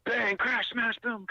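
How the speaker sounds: high, punchy imitation of crashing through the woods; lightly hammed-up crash sound effects; excited crash sounds. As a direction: spit out each noise like it's happening now. Imitating the creature crashing away.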